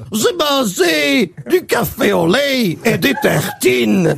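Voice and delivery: slow, drawn-out answer with a mock cracked voice; broken child voice. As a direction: drag out the boy's answer as if his voice broke. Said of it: "il a mué pendant la nuit".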